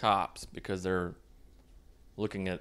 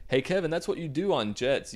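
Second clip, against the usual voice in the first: higher-pitched mock remark; self-mocking; 8 semitones higher than usual. Host jeering at own remark about jets, self-mocking. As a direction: poke fun at your own obvious line.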